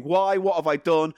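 mildly hammed-up victim's protest; mock crying plea. Fish song digging its grave, mock crying plea. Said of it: "It's crying".

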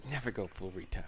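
breathy movie-line whisper; whispered quote. Retold or imitated. Friends quoting Tropic Thunder, soft whisper. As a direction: hush it like a secret.

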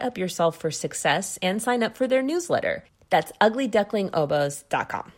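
measured, scripted sponsor read. Acted. Podcast host reading an oboe shop sponsor message, ad read. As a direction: read out the sponsor copy clearly and evenly.

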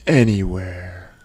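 slow, drawn-out low reply; creepy passenger. Retold or imitated. Passenger tells the driver where to, slow and suggestive. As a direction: stretch it out, lightly voiced creep.

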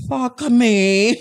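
high lusty "Fuck me"; mock lustful exclaim. Friends joking about accents, hammed-up lustful cry. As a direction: ham up a lustful gasp.

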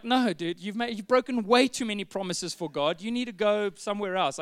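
mock bouncer turning someone away; church bouncer. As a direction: play the tough doorman, half joking. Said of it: "We'll just get Wynand".

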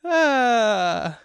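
high hammed-up preachy rap; mock gospel rapper, sing-song; Christian rapper.

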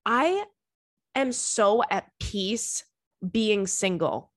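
slow, calm and content; telling a friend about being single, calm and very slow; at peace. Retold or imitated. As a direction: savour each word, very slow and serene. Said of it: "I'm like".

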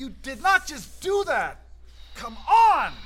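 high, slow, disbelieving outburst; exasperated. Acted. Mark scolding Ted for the spill, exasperated and high. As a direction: let the frustration rise on each word.

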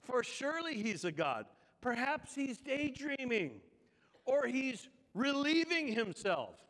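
mock-helpful taunt. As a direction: scoff at their absent god. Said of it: "Elijah began mocking them".

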